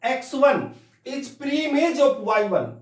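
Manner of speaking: very slow, deliberate "is pre-image of"; slow reading aloud. Shown as a demonstration. Teacher showing how to read it aloud, very slowly. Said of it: "इसको मैं ऐसे पढ़ूंगा".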